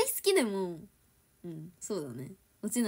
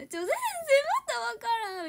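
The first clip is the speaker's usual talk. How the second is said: higher, half-joking frustrated plea to the teacher; mock-angry Kansai whine; 13 semitones higher, much faster than usual. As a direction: whine it like a student stuck again. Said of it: "ずっと怒ってるやん".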